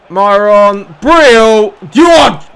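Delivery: loud, high shouts climbing each time; goal shout. Real, not acted. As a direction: call the goal, building to a full yell. Calling a goal as it happens.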